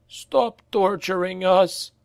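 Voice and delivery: high, slow, pleading voice; pleading cry. A narrator's reading. A third slave crying out to Reiner, high and pleading. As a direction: beg them to stop. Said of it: "cried a third".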